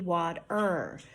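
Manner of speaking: water with a strong "er" ending; "water" slowly, ending in a clear er; R fully sounded. Shown as a demonstration. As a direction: lean on the final R in "water". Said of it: "in place of the R".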